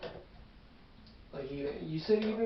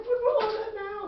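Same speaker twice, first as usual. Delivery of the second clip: put-on high, wailing elderly woman; high old lady voice. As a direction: squeak it up like a frail grandma.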